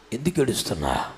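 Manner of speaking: very low, hushed question; tender hushed inquiry; soft questioning. Acted. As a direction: drop suddenly to a quiet, deep murmur. Softly asking the weeping woman.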